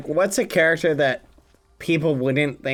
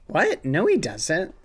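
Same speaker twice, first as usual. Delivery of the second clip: mock surprise. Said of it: "we just do something like".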